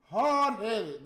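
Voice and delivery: loud, punching Hard-headed; Hard-headed said loud and final. Real, not acted. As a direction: spit out Hard-headed in frustration. Repeats insult louder.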